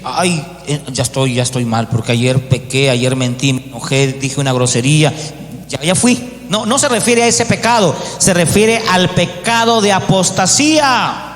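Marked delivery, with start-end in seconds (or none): 0.0-6.5 mock despairing sinner. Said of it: "Hay mucha gente que se siente así".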